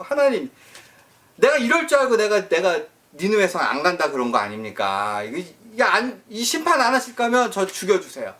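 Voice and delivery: sulky prophet protesting, ending in a shrill plea; mock defiant outburst. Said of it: "하면서 그냥 반항을 막 하는데". (반항하듯 항의하다 높게 외치는 죽여주세요)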